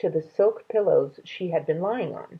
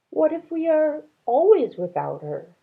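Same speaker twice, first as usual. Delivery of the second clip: grieving wife; 10 semitones higher, 4 dB louder than usual. A narrator's reading. Ma to Ba by the empty bed, high and tearful. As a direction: plead it out through tears. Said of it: "Ma said".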